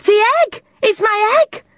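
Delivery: high, thrilled gasp of discovery. Acted. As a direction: gasp it out in delight. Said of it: "Tilly gasped".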